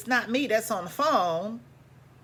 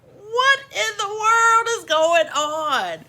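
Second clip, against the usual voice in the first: pitched-up, slow, what in the world; high disbelief; 11 semitones higher, 5 dB louder, slower than usual. Acted. Narrator stunned at being chewed out, high and slow. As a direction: stretch it out, baffled and high.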